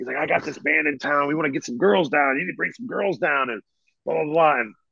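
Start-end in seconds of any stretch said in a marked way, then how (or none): 0.2-3.5 put-on self-important, pompous voice, pitched higher. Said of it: "acting like he's big shit".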